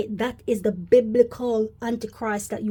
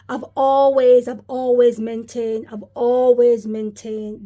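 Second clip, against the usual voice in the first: emphatic; 4 dB louder than usual. Real, not acted. Insisting on his long-held claim.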